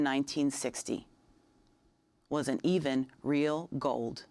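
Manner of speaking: measured poem recital with deliberate pauses; poetry reading. Acted. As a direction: read your poem aloud, letting each phrase land separately. Reads own poem aloud.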